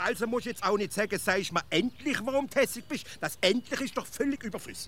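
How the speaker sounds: high-pitched, worked-up indignation; heated nitpicking. Acted. Heated nitpicking over wording.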